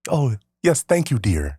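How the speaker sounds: lightly imitated dad's phone voice, lifting then dropping; dad charming a woman. Son imitates dad talking to a woman, mock-courteous phone voice. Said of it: "if he's talking to a woman".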